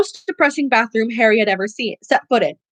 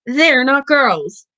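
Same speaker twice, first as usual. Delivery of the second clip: put-on slow, suspicious ghostly girl; drawn-out sulky ghost voice; 3 dB louder, much slower than usual. A narrator's reading.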